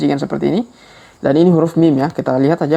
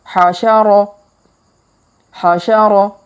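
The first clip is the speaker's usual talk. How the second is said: faster reading; 4 semitones higher, 3 dB louder, slower than usual. Shown as a demonstration. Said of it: "Kalau dipercepat".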